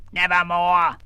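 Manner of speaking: croaked by a raven; a bird's flat one word. Acted. Mortimer croaking at the sergeant.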